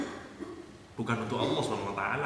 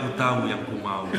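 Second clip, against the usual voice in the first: laughing husband's answer; 5 semitones lower than usual. Retold or imitated. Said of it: "Langsung dia jawab".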